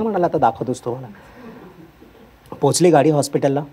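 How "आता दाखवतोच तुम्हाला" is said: quiet threat. Retold or imitated. Professor threatens students.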